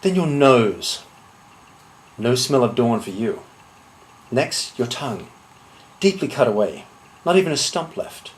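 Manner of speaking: deliberate threat with long pauses; measured menace. Acted. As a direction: list each threat coolly, letting it land. Threatens a duel opponent, item by item.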